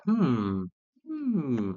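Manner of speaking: long, high "hmm" sliding down; pondering hum. Retold or imitated. He mimics Gadget at the mirror, drawn-out pondering hum. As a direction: draw out an imitated hum of pondering.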